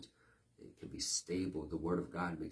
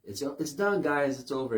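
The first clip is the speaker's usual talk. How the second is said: mock announcer; 5 semitones higher, 6 dB louder than usual. Mocks the all-clear announcement.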